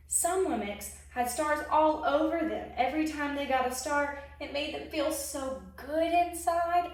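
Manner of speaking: lively storybook narration; expressive picture-book reading; reading to children. A narrator's reading. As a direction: read it like a children's story time. Reads a picture book aloud.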